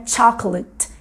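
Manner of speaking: "chocolate" em inglês, final "let" curto. Shown as a demonstration. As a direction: diga "chocolate" à inglesa, com vogal final breve. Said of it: "Esse let do final é um I curto". ("chocolate" em inglês, devagar, com i curto no fim)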